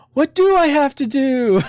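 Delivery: high, put-on voice for the golem. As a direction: play the puzzled golem, lightly. Voicing the confused golem.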